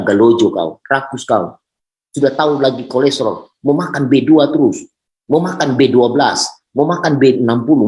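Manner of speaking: mock telling-off of a glutton; scolding angel. Angel rebukes a greedy eater saying grace, mock scolding.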